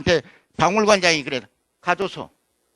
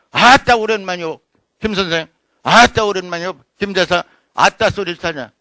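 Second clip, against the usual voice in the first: Jeolla greeting; 4 dB louder than usual. Retold or imitated. Greeting a friend in dialect.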